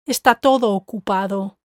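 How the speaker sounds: TODO emphasized and run together with OCUPADO; stress on TODO. Shown as a demonstration. Teacher showing emphasis on todo, stress on TODO. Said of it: "Notice how I've emphasized the word todo".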